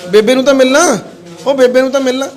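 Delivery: insistent urging. Real, not acted. Helper urging a man to greet his mother, insistent. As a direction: urge him loudly, pitch lifted.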